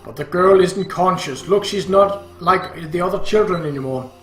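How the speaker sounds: loud, insistent father; exasperated dad; irritated shouting. Acted. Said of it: "Dad got irritated and started shouting".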